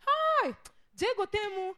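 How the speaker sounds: high, loud cry of exaggerated alarm; mock alarm. Panicker reacting to a passing mosquito, mock alarm. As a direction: overreact as if under attack.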